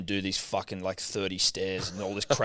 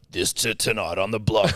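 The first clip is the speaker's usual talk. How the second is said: mock voiceover promo; 2 semitones lower than usual. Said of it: "and it's like".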